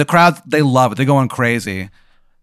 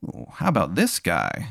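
mouthed aside; 5 semitones lower, 8 dB quieter than usual. Retold or imitated. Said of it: "you hear him mouth the words".

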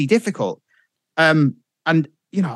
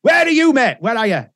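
raised pitch, urgent imitation; acted fluster, higher than usual; agitated phone caller; 8 semitones higher than usual. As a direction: rattle off a hammed-up panicked call. Acts the agitated prank-call exchange.

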